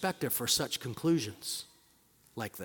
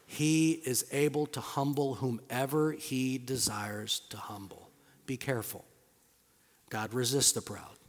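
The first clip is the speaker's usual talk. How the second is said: hushed to a whisper; 3 semitones lower, 6 dB quieter than usual. Real, not acted. Preacher hushing the congregation, trailing into a whisper. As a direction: drop to a near whisper at the end. Sermon point dropping to whisper.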